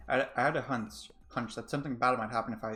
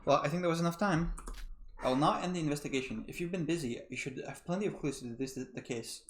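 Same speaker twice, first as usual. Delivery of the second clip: game host; 2 semitones higher than usual. Acted. Host sends everyone to the trial grounds, playful announcement. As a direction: announce it playfully, with a teasing little chuckle.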